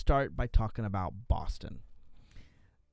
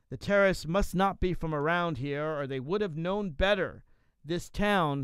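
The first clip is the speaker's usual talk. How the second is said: higher-pitched, emphatic reading of a defiant rant; animated quote reading; 5 semitones higher than usual. Acted. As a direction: read the blog rant with relish. Reads a blog post aloud.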